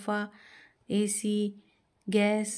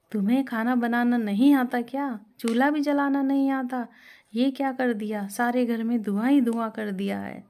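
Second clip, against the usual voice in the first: shouting; 3 semitones higher, 4 dB louder than usual. Acted. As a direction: yell at the daughter-in-law over the smoke. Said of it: "तारा बाहर चिल्लाती हुई आती है". (चिल्लाती हुई सास)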